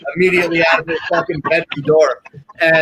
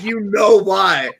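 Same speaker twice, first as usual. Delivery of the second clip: laughing; slower than usual. Retold or imitated. Retold girl, laughing loud.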